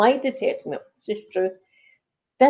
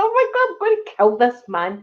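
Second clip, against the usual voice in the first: retold panic; 3 semitones higher than usual. Telling a friend about nearly reversing into her rescuer, mock panic. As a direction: imitate your own panicked thought.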